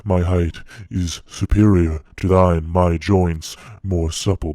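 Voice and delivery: loud, emphatic declaration of superiority; proud, forceful declamation; forceful boast. Acted. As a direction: press each claim home with force. Creature boasts of its superior strength.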